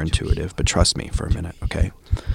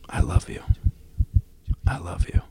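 breathy, softer and softer; soft whisper; 2 semitones lower, 3 dB quieter than usual. Real, not acted. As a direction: send it out gently. Whispered ending blessing.

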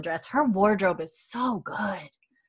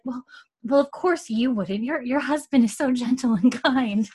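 stuttering Mary; 4 semitones higher than usual. Retold or imitated. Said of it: "Mary has a little bit of a stutter".

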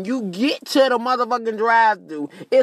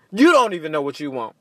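ordinary talk

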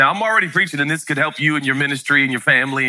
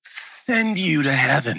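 put-on dad quietly threatening the older son; mock threat; 2 semitones lower, 3 dB quieter, slower than usual. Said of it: "look at his older brother and say".

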